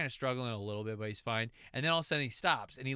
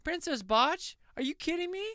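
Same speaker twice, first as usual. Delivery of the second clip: indignant Artax; 8 semitones higher than usual. Acted. Artax complaining to the princess at the end, high and exasperated. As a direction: vent at the princess, fed up. Voicing angry horse Artax.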